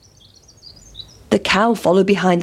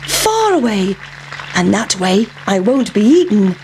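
lightly voiced runaway pancake. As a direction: lift the voice for the plucky pancake. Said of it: "thought the pancake".

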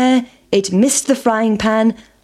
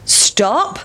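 1 farmer calling; 7 semitones higher than usual. A narrator's reading. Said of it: "said the farmer".

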